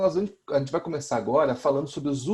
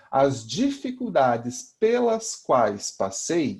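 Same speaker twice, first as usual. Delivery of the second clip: pelas quais read slowly and deliberately; teacher modelling the correct substitution slowly; slow model sentence; much slower than usual. Shown as a demonstration. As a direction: dictate pelas quais word by word. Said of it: "eu posso substituir por pelo qual".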